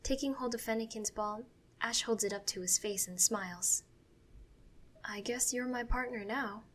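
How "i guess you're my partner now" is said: softly, a touch hushed; whispered. A narrator's reading. Ash talking privately to his new Pokeball partner, softly whispered. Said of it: "he whispers to the ball".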